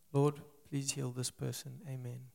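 low, flat, going-through-the-motions prayer; half-hearted prayer. Retold or imitated. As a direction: mumble a lukewarm prayer. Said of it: "Not just like".

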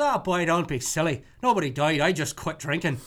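lightly voiced Irish punchline; cheerful touch of Irish accent. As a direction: brush it off in a light Irish brogue. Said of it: "here's an alcoholic Irish joke".

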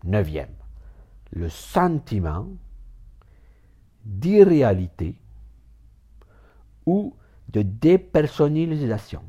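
spaced out, deliberate reading with long pauses; calm, careful read-through; slow careful reading. Shown as a demonstration. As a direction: read it slowly, word by word. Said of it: "je la lis doucement".

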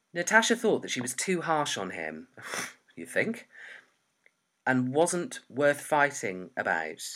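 measured, emphatic reading aloud; story narration. Acted. Writer reading her novel draft to a friend, measured narration. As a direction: read your story out with deliberate stresses.

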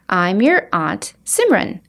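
slow whispered introduction; whispered intro. Acted. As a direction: whisper it slowly. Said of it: "the woman in purple interrupts".

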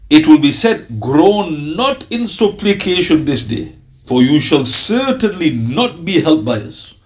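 slow, weighty scripture reading; solemn verse reading. Acted. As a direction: read the verse slowly, like holy text. Reciting verse translation aloud.

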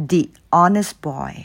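"the" with ee before "honest", silent h; "the" as dee. Shown as a demonstration. Teacher showing the vowel rule, "the" as dee before "honest". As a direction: say "the" like dee, "honest" starting on an o sound. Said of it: "แต่ออกเสียงเป็นตัว O แทน".

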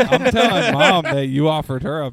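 put-on childish threat. Tattling on brother to mom.

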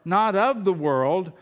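emphatic public Bible reading; scripture reading. Real, not acted. Preacher reads Jesus' words to the church, emphatic scripture reading. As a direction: read the verse out firmly to a congregation.

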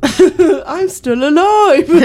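high, slow comic voice through giggles; mock protest. Co-host playing the man being buried, mock protest. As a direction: drag it out high, half laughing. Repeating the not-dead man bit.

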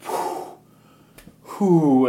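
airy show-off "whew"; mock exertion puff. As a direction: pretend to blow out after a heavy lift. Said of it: "and be like".

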